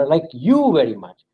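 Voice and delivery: you stressed. Shown as a demonstration. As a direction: point the weight at you. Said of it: "totally different meaning".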